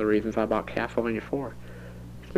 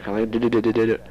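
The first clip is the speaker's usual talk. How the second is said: trying a rolled R; faster than usual. Shown as a demonstration. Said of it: "put the tongue on the top of your mouth".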